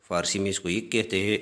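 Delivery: ordinary delivery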